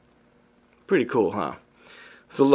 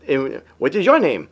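lightly imitated cute accent; mild attempt at his accent; Brother John's accent; 2 semitones higher than usual. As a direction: retell his question with a touch of his accent. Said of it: "how cute his accent kinda is".

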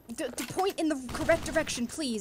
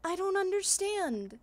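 exasperated; 3 semitones higher, slower than usual. Real, not acted. Frustrated at puzzle.

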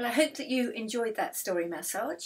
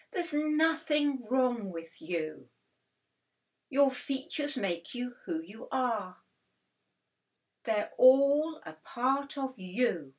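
raised, slow, emphatic reassurance; reassuring doctor; 3 semitones higher, 4 dB louder than usual. A narrator's reading. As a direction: tell the patients firmly and slowly they are fine. Doctor reassuring her worried patients.

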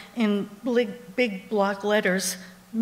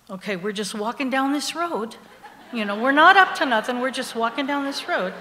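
feigned innocence; 3 semitones higher, 3 dB louder than usual. Acted. Acting innocent while sneaking past guard.

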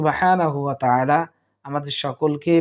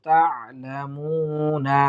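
slow, drawn-out tajweed reading; Quran recitation; much slower than usual. Shown as a demonstration. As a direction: recite with long held vowels. Recites Quran words slowly. (ধীরে টেনে কোরআন তেলাওয়াত)

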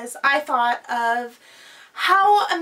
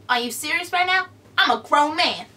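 Kevin Hart impression; 3 dB louder, faster than usual. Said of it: "that's all I'm gonna do of Kevin Hart".

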